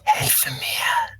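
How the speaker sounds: whispered German plea. Acted. Leaning close to the patient's ear, whispering. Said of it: "I whisper in his ear".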